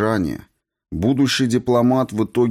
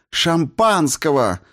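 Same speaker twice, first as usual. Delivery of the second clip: shouting; 9 semitones higher, slower than usual. A narrator's reading. Polina shouts her demand at the party. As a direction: shout for champagne. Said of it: "закричала Полина".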